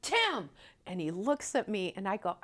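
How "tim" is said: high, loud repeated hail; retold yell. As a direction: holler to get a man's attention, acted out. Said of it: "You want me to yell again?".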